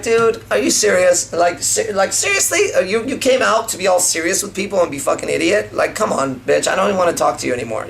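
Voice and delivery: mock disbelief, pitch leaping on seriously; playful mock outrage. Shown as a demonstration. Coach demoing a playful mock-offended tease at a girl. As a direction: tease her like she's being ridiculous. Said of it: "I'm being playful".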